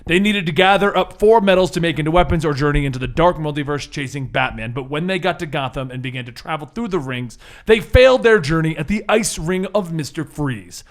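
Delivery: dramatic recap narration; story narration. Acted. Game master opens the recap with storyteller narration. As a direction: open the tale like a storyteller.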